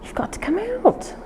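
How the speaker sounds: high sing-song coaxing to the dog. Real, not acted. Trainer coaxing the puppy out, high and soft.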